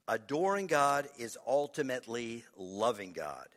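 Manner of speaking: firm, projected key point; emphatic statement. Real, not acted. Preacher announcing the last point to congregation, emphatic.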